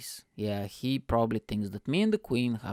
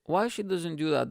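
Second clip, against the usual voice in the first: dad impression; 5 semitones higher than usual. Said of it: "my dad goes".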